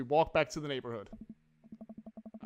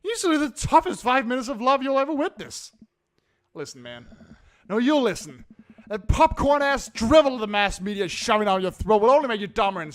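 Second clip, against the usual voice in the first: put-on drunk voice; 4 semitones higher, 5 dB louder than usual. Robert lecturing Ernest on cinema, lightly drunk voice. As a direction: lecture like a tipsy cinephile. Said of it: "I gotta do the drunk voice".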